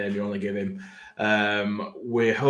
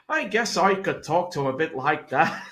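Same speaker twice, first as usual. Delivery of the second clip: put-on Norfolk accent; 4 semitones higher than usual. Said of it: "Go and do it again".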